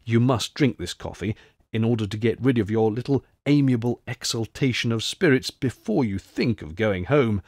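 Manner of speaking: a hint of hushed, earnest counsel; confidential advice. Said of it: "in mysteriously confidential tones".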